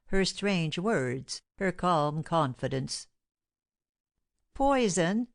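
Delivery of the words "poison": higher-pitched, startled question; stunned, rising query; confounded. A narrator's reading. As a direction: ask it in disbelief, voice lifting. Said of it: "stammered he, confounded".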